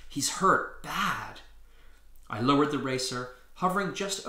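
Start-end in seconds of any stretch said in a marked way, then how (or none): 0.1-1.4 groaning worry. Acted. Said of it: "Jessica groaned".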